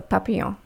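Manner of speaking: papillon with the final n left silent; French pronunciation. Shown as a demonstration. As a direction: end papillon on a French nasal vowel. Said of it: "You do not".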